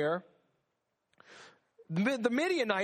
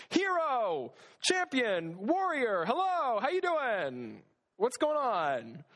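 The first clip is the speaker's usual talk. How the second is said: hyping up Gideon; 5 semitones higher, slower than usual. Retold or imitated. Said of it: "the Lord had to say it probably twice, like".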